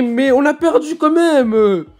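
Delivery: high, loud drawn-out wail; exasperated outburst. Real, not acted. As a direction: wail in protest at losing. Exasperated at losing the game.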